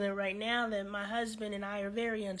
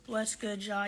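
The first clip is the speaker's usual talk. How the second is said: low greeting. Real, not acted. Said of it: "I'm talking like this tonight".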